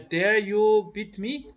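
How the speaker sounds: high, loud, slow challenge; mock quarrel. Shown as a demonstration. Learner acting out a rude quarrel challenge. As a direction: throw it at them like a quarrel. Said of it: "It is rude, but, uh, people call, quarrel".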